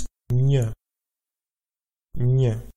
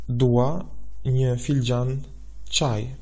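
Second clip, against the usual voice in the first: slow model answer; slower than usual. Shown as a demonstration. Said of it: "would be".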